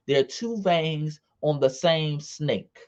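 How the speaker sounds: slow and deliberate, leaning on two; slow emphatic repeat. Shown as a demonstration. Repeating it slowly for the family watching, deliberate. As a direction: spell it out slowly, weighing two. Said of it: "Let's be clear".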